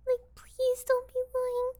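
slow, drawn-out plea; beg, stretching out the words; pleading. Acted. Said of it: "I'm begging you".

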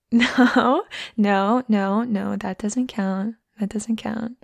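slow whispered protest; playful whisper. Acted. Telling a shy friend a glance doesn't count, whisper. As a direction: pout it in a hush.

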